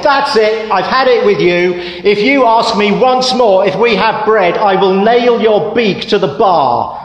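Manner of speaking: a fed-up barmaid finally snapping; angry threat. Acted.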